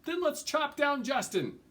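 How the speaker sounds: high, loud gleeful cry; rowdy ruffian shouting; ruffian's cry. A narrator's reading. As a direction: shout it out, egging the others on. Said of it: "another cried".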